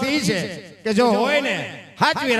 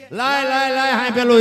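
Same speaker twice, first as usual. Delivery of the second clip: demanding shout; 3 semitones higher, 7 dB louder than usual. Acted. Husband demands the sticks.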